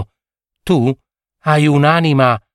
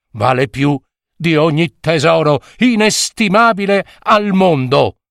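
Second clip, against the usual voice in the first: a priest's raised, pleading voice, pitched higher; horrified old priest; 5 semitones higher than usual. Acted. Priest to the young fisherman, shocked and pleading.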